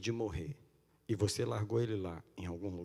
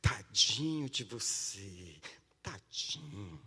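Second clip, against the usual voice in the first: mock pity; 3 semitones lower, much slower than usual. Mocking self-pity.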